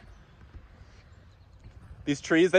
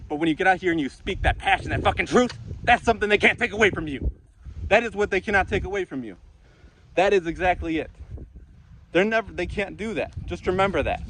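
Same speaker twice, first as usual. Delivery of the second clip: getting passionate; 4 semitones higher than usual. Real, not acted. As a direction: preach it like you mean it, building up. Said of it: "Man, I'm getting passionate".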